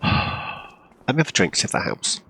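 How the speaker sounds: hiccups. Real, not acted. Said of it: "Now that I'm hiccuping".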